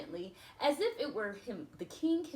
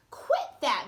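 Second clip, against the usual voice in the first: louder sharp protest; mild cross cry; 2 semitones higher, 6 dB louder than usual. Acted. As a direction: tell her to stop. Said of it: "Merryweather cried".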